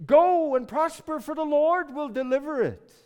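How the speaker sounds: high, loud mock proclamation; sarcastic. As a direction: proclaim it loudly with exaggerated, sarcastic confidence. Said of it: "he answered it very sarcastically".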